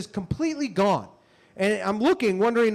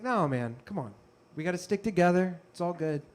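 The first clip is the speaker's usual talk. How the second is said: calm reassurance; 3 semitones lower, 5 dB quieter than usual. Retold or imitated. Helper refusing money kindly.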